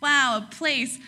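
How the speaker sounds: mock wide-eyed wonder; awestruck Jacob. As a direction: play Jacob as starry-eyed and gushing. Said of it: "So Jacob's like".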